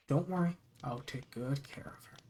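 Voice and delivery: soft eerie whisper; playful spooky voice. Acted. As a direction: whisper it like a creepy secret. Reading out a creepy note.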